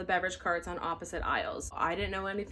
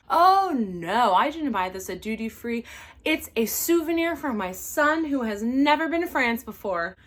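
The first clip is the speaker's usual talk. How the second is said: louder, mock innocent excuse; entitled passenger; 2 semitones higher, 7 dB louder than usual. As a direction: play the passenger who lies sweetly. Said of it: "had the audacity to tell me".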